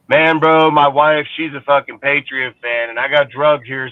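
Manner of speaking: imitating a fan explaining his wife's choice; mock fan excuse. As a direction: play the henpecked husband making excuses. Fan's excuse mimicked.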